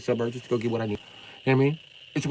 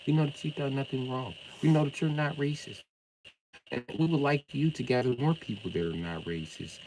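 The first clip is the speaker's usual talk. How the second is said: mock-patient, softer, talking down; condescending tone; 3 dB quieter than usual. Mocking a viewer with a condescending lecture. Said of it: "I'll talk to you from now on in a condescending tone".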